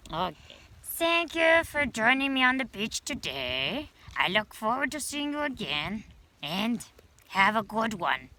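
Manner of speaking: put-on playful beach critter teaching children, words stretched for emphasis; shell-dwelling beach creature. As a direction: talk like a friendly little shell creature explaining to kids.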